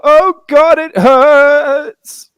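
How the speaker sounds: mock cry of a hurt man; wounded man. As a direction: moan it like a stranger in pain. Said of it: "some man go".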